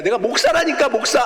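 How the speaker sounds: exasperated, he insists he is a pastor; insisting. Retold or imitated. Pastor telling the kids again who he is, insisting. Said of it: "아저씨가 뭐 하시는 분인데".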